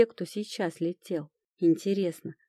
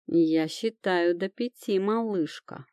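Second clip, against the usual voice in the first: slow purring tease; lightly purred, slow and teasing; slower than usual. Acted. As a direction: purr it like a playful threat. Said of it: "мурлычет эльф".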